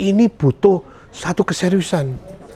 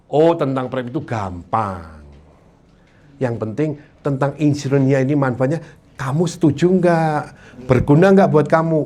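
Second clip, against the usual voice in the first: calm reassuring seller; 4 semitones lower than usual. Shown as a demonstration. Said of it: "Nanya pertamanya".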